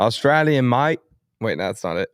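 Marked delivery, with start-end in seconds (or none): 0.0-1.0 punchy mock Australian accent; briefly attempted Aussie accent. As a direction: have a quick go at an Australian accent. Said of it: "Any other accents".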